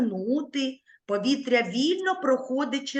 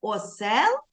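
recite together; 7 semitones higher than usual. Shown as a demonstration. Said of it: "Давайте разом промовимо".

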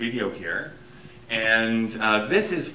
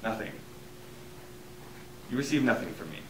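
quavering voice; 7 dB quieter, faster than usual. Acted. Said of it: "His voice quavered".

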